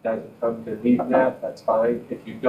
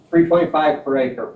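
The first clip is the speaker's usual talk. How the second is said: louder and higher, clearly repeated; to someone hard of hearing; 4 semitones higher, 3 dB louder than usual. Real, not acted. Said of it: "Can you talk louder".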